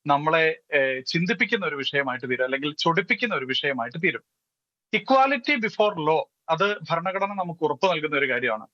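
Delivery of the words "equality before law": Equality before law, each word drawn out very slowly, stress on Equality; slow emphasis. Real, not acted. Quoting the constitutional principle. (Equality before law വളരെ പതുക്കെ, ഊന്നി പറയുക)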